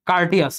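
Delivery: কার্টিয়াস said as kar-ti-yas, not courtesy; teacher to students, কার্টিয়াস as kar-ti-yas; correct pronunciation. Shown as a demonstration. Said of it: "এটা কিন্তু কার্টিয়াস উচ্চারণ হবে".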